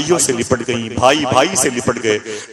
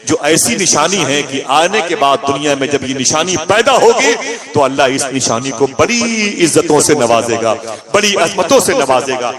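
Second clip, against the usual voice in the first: fervent proclamation; 2 semitones higher, 4 dB louder than usual. Acted. Amina proclaims her child's greatness.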